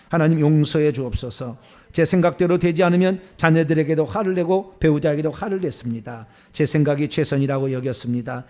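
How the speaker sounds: steady, recited confession to God; evenly phrased prayer of contrition; repentance prayer. Acted. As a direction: lead the congregation through penitent lines.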